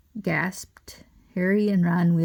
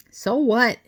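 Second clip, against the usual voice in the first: shouted; 5 semitones higher, 5 dB louder than usual. A narrator's reading. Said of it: "Harry shouted".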